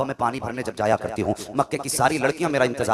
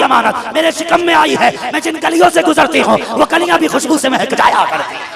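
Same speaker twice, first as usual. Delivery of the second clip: rising higher and louder, pleading through tears; tearful building plea; 10 semitones higher, 9 dB louder than usual. Acted. Amina tearfully answering her father-in-law, building to a high cry.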